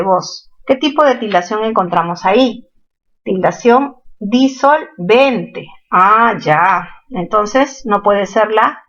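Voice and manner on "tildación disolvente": slow, spelled-out term. Shown as a demonstration. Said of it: "naming the term slowly".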